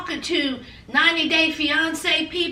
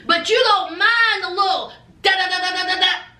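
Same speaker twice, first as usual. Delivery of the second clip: shady mock Paul; 3 semitones higher than usual. Husband mocking his wife for hating the train, shady. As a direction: needle her with mock sympathy. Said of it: "Paul, honey, throwing some low-key shade".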